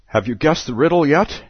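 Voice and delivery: a hint of the Mad Hatter; Hatter's voice. Hatter voiced in read story.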